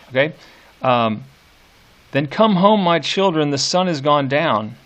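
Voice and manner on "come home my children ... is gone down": nurse calling. Shown as a demonstration. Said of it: "who is it that is addressing the children".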